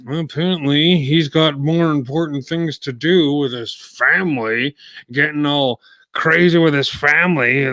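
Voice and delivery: mocking, sarcastic jab. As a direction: scoff at the idea sarcastically. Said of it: "That's sarcasm if you didn't know".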